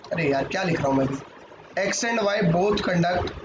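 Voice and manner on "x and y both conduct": slow dictation. Shown as a demonstration. Teacher dictating while writing.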